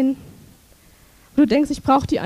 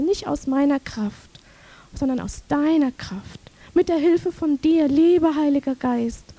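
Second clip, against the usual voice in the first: prayer. Acted. Models a prayer.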